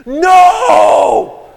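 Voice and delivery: high, loud shout of No; child's scream. Retold or imitated. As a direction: scream No like a panicked kid. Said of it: "my friend screamed at me".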